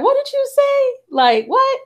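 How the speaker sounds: high, startled mock disbelief; a hammed-up baffled neighbor; shocked neighbor. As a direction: blurt it out, taken aback.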